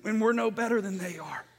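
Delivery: normal talking voice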